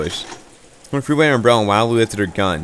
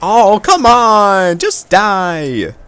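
much higher, louder, dragged-out rage; furious shout; 11 semitones higher, 8 dB louder, much slower than usual. Acted. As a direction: scream it out in fury. Furious outburst at rival.

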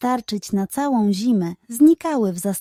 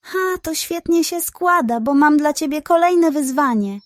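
scheming pug; 5 semitones higher than usual. Acted.

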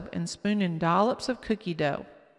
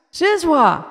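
put-on high, loud happy toddler; happy exclamation; 9 semitones higher, 10 dB louder than usual. A narrator's reading. Casey seeing the cereal box, happy high toddler voice. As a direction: squeal it like a delighted child. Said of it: "Casey exclaimed happily".

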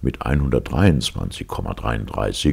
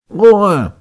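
high, loud furious yell; beside himself; 11 dB louder than usual. Acted. Professor losing his temper at the orderly, furious yell. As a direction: scream for silence in a rage. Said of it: "rief Palmyrin Rosette ganz außer sich".

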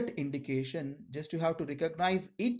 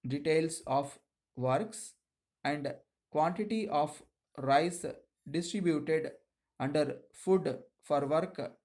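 dictating. Acted. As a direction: read it out phrase by phrase for shorthand. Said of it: "Now I'm going to dictate you".

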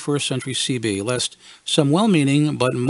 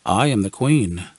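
adult woman; 5 semitones lower than usual. Retold or imitated. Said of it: "far more adult, far more feminine".

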